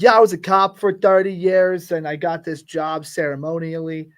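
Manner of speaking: light New York cop voice; New York accent. Retold or imitated. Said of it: "I did a New York accent for that".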